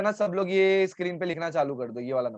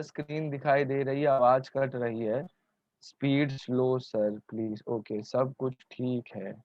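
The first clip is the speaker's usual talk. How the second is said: slow, lower reading voice; deliberately slow; 5 semitones lower, 4 dB quieter than usual. Shown as a demonstration. Teacher reads students' complaints back to them, deliberately slow. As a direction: read it out at a plodding pace, pitched down. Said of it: "कछुए की तरह एकदम slow बोलता हूँ".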